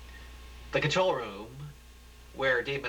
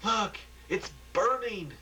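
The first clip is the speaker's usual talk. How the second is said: high, slow shouted warning; a bystander shouts about the fire; background shout; 10 semitones higher, slower than usual. Acted. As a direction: yell it from across the room. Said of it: "Voice in the background shouting".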